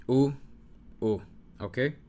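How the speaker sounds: U called out loud and high; vowel demo. Shown as a demonstration. Teacher modelling the U sound, loud. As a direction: ring out U clearly. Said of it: "they both have the U sound".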